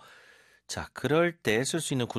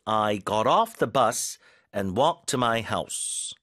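slow model sentence; much slower than usual. Shown as a demonstration. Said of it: "버스를 뒤에다 붙여볼게요".

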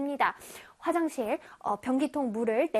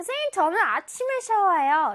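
lightly imitated schoolchild, a little higher; pupils' voices; 4 semitones higher than usual. Some pupils tell teacher their habit, lightly imitated child. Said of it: "어떤 친구들은".

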